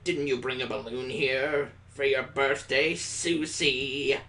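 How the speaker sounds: slow, suspicious teacher voice; teacher accusing a student. Acted. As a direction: drag out the accusation.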